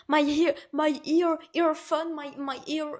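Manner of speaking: imitating a desperate attempt at English; struggling broken English. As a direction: grope for English words, pleading. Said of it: "J'essaie vraiment".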